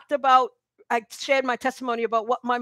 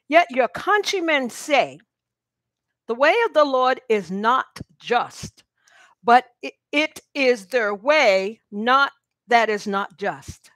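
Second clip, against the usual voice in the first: slow reading; 3 dB louder, slower than usual. Shown as a demonstration. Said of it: "I'm gonna read it slow".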